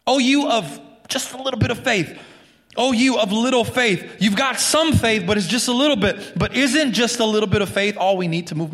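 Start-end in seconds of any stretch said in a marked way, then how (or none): 0.1-6.4 higher, tender voice of Jesus; a lightly voiced Jesus, higher and gentle. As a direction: speak it like a patient rebuke. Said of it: "He says, rather".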